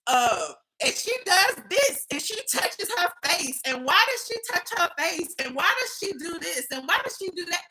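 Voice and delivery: high, mocking fussy complaints; nitpicking critic imitation. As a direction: imitate her picking at every detail. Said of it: "drinking wine and was like".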